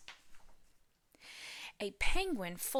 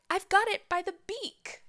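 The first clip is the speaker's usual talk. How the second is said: put-on Baby Bear crying out; 4 dB louder than usual. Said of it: "Baby Bear cried".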